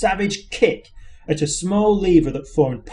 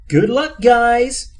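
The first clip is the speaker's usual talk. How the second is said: bright, higher computer chirp; chirpy computer; 7 semitones higher, 5 dB louder, much slower than usual. A narrator's reading. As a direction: chirp it like a cheerful machine. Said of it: "chirped the computer".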